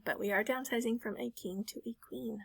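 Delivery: soft unvoiced whisper; whispered aside. Real, not acted. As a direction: whisper it like a secret. Repeats the plan, whispered aside.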